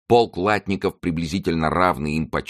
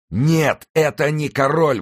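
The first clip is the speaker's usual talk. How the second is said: high, loud contradiction; emphatic exclamation; 11 semitones higher, 4 dB louder, slower than usual. A narrator's reading. Rider corrects deceived soldiers, high emphatic shout. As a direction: cut across the soldiers with a cry. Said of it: "воскликнул всадник".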